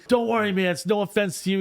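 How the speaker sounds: high-pitched mock calling out; imitated yell. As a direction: mimic a kid yelling after you. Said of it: "this kid yells out to me".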